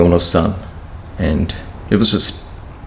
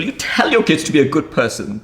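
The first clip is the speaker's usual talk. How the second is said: higher, straining voice, near tears; tearful; 6 semitones higher than usual. Real, not acted. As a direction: say it with a catch in your throat. Repeats line, first take stronger.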